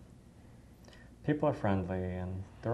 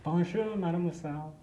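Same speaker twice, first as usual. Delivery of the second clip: cheerful French greeting; 8 semitones higher than usual. Retold or imitated. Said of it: "the way he did it".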